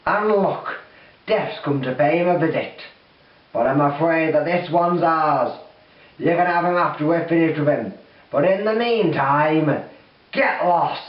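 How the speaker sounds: loud, sneering demon voice; menacing demon. Acted. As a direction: warn Death off, smug and loud. Demon claims the soldier.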